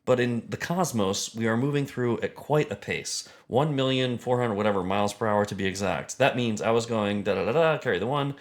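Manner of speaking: lightly voiced science lecturer; earnest, emphatic running calculation; a hint of a pedantic astrophysicist; Neil deGrasse Tyson. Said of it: "my impression of Neil deGrasse Tyson".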